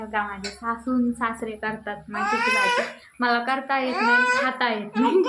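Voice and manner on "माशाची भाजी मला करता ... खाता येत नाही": mock whining. Playful complaint she can't cook fish.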